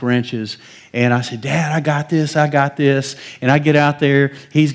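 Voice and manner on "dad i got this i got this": put-on eager kid. Child voice insisting to dad.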